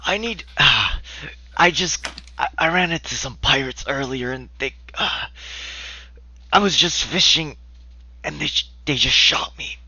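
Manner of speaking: put-on high, frail old man voice; wounded old man asking for help. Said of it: "He looks like a very old man".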